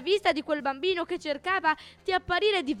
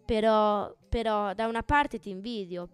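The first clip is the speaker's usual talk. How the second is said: low and sad. Acted. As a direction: wistfully admit your envy. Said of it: "più bassa, anche un po' triste". (un po' triste, più piano)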